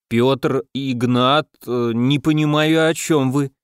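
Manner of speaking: stiff lips, slow halting words; numb lips. Acted. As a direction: talk as if lips won't obey. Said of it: "непослушными губами проговорил я".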